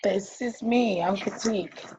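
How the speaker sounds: slightly hoarse, voice going. Real, not acted. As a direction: talk with a hoarse, worn-out voice. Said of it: "I'm losing my voice a little bit".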